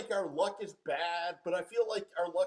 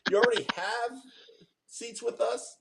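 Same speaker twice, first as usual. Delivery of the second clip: fake phone voice; 3 semitones higher than usual. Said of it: "in their fake voice".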